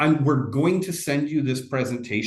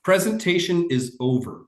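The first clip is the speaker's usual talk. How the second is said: lightly voiced deadpan character, pitch starting high and falling; a hint of impersonation in a curt sign-off; Ron Swanson impression; 5 semitones higher than usual. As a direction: announce it with a falling, mock-final cadence. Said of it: "that's my Ron Swanson impression".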